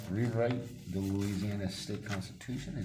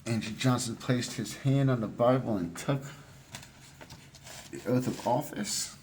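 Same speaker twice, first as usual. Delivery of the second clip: muffled behind a mask; talking through a face mask; 3 semitones higher, 6 dB louder than usual. Real, not acted. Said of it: "Sorry, I've got this mask on".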